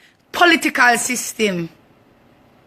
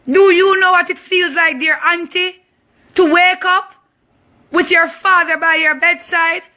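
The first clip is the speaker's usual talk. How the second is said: angry outcry; 4 semitones higher than usual. Real, not acted. Furious confrontation with the auntie.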